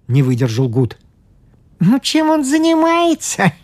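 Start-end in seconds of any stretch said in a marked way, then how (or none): 1.8-3.5 amused priest. A narrator's reading. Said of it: "ответил священник".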